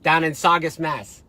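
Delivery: put-on an overdone Boston accent, voice pushed up a little; weird Boston accent. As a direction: play a bad Boston local. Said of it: "that's like a weird Boston accent".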